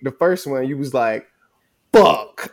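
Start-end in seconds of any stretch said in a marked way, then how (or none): 1.9-2.5 a loud, higher retold yell of pain; a sharp mock cry of pain; imitating her scream. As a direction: bark it out like she did falling. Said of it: "not only did you scream for my attention".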